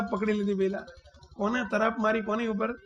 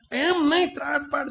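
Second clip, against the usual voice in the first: higher, urgent lion voice; urging lion; 4 semitones higher than usual. Retold or imitated. Lion urging cub to roar, higher and urgent. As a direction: push him hard to roar.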